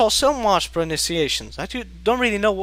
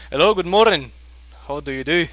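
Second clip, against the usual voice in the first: greeting with Scottish R sounds; retold Scottish-accented hello. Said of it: "the R sound is a Scottish accent".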